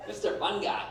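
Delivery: high, sugary threatening wife voice; wife warning her husband at a party; mock wife. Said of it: "You tap us on the shoulder like".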